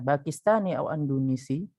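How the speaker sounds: "Pakistani au Andonesi" with a questioning rise; questioning intonation. Shown as a demonstration. Teacher quoting the question put to Hasan, questioning intonation. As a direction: ask "Pakistani au Andonesi", lifting the end. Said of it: "Itu dia bertanya kepada Hasan".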